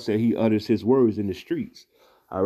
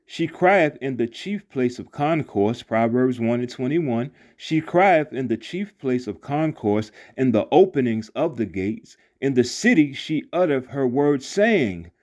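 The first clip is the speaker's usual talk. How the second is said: intoned scripture reading; 2 semitones higher, slower than usual. Acted. Preacher intones Proverbs.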